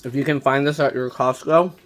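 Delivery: talking with mouth full. Real, not acted. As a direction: say it while chewing. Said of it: "sorry, I'm chewing".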